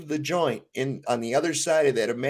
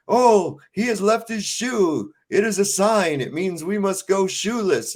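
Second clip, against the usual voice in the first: higher, earnest mock prophecy; zealous follower; 6 semitones higher than usual. Followers reading the shoe as a sign, higher mock zeal. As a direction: announce the sign like a devoted follower. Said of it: "And they're saying".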